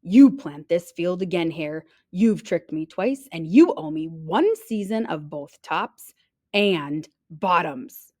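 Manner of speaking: mild growl of demands; growling bear. Acted. Bear demanding payment from hare, growling. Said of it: "Bear growled".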